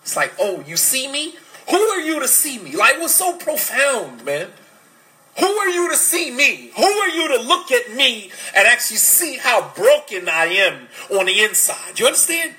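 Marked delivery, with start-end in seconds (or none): 0.4-2.8 put-on defensive boy. Voicing insecure boy's defensive reaction. 5.4-12.5 put-on defensive boy. Voicing the boy's defensive inner voice.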